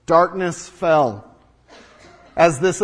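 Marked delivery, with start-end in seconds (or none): 0.1-1.3 darkness fell drawn out slowly; slow, weighty. Shown as a demonstration. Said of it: "repeated for weight".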